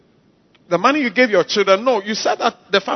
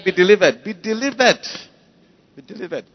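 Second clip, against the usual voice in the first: fading proclamation; 3 dB louder than usual. Acted. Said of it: "I said".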